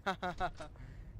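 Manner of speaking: put-on mock chuckle; mock giggle to oneself; imitated brain laugh. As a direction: act out your own brain laughing. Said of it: "my brain's like".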